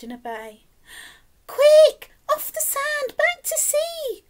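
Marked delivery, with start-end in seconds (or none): 1.5-4.2 high, loud shout, dragged slow at the end; urgent cry. A narrator's reading. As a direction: yell it at the whale to hurry. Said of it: "cried the snail".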